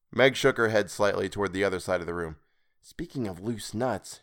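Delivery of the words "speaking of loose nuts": whispering. Acted. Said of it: "she whispered".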